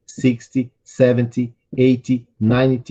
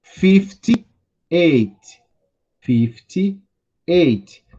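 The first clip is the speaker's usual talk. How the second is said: slow model reading; 2 semitones higher, much slower than usual. Shown as a demonstration. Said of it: "vocês podem ir repetindo aí comigo".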